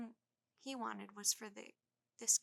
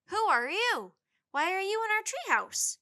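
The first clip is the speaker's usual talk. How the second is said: put-on demanding child; 10 semitones higher, 13 dB louder than usual. A narrator's reading. Boy demanding from below.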